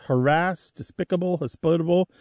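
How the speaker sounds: haRASSED, desPICable, hosPITable; harassed, despicable, hospitable, each stressed on syllable two; stress on second syllable. Shown as a demonstration. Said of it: "that stress on the pronunciation to the second syllable".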